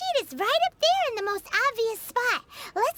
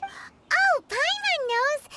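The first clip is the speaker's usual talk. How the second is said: sharp high "oh", then a slow proud announcement; sudden realization; 6 semitones higher, much slower than usual. Acted. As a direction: it just clicked. Sudden realization about talismans.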